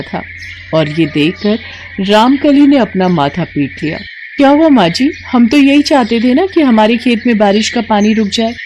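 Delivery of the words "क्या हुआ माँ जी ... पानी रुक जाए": put-on a bright-eyed young wife asking her mother-in-law; daughter-in-law puzzled, asking her mother-in-law. Narrator voices young daughter-in-law.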